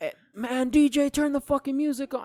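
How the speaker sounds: loud yelling.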